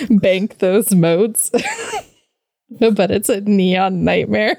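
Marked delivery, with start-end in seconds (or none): 0.1-1.5 slow, lightly voiced hobo drawl; a hint of the Drifter, drawn out; rambling folksy hobo. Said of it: "You just hear".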